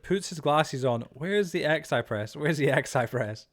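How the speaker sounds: slow, lightly voiced old man; hint of a fumbling boomer, drawn out; mock old man. Mocking Ali's computer skills, slow mock old man. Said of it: "he's got the mind of an old man".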